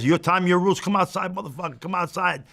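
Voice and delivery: retold angry dare to step outside; storyteller calling a man outside to fight; furious challenge. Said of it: "And now I'm fuming. I'm furious".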